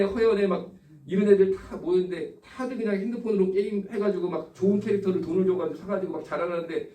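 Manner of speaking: ordinary talk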